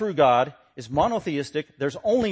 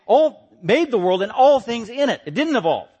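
raised, louder emphatic preaching; forceful preaching; 5 semitones higher, 7 dB louder than usual. Acted. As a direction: drive each point home to the congregation.

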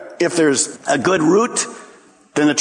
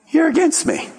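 pointed challenge; 11 semitones higher than usual. Acted. Jesus confronts Pharisees.

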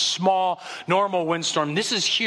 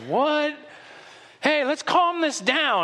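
higher, slow easygoing wake-up; groggy surprise; 10 semitones higher, slower than usual. Retold or imitated. Jesus wakes amid chaos, mildly surprised and relaxed. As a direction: shrug off the chaos lightly. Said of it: "And he's like".

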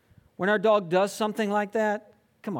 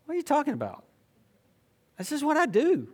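voicing the dog; 5 semitones higher, much faster than usual. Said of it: "As if to say".

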